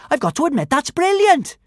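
put-on high, delighted girl; excited girl voice. A narrator's reading. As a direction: cheer it like an eager girl.

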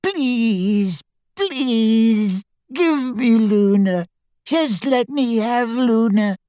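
high, slow tearful begging; sobbing. A narrator's reading. Father begging captors for his daughter, sobbing. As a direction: plead in a drawn-out thin wail. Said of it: "sobbed Xenophilius".

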